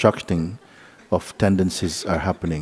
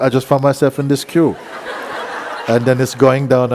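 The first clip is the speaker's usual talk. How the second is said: laughing; 4 semitones higher than usual. Real, not acted. Laughing while telling market story.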